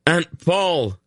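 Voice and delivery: high urgent shout. A narrator's reading. Geryon to Aunt Paul as riders charge, shouting. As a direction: shout for her across the ravine. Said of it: "he shouted".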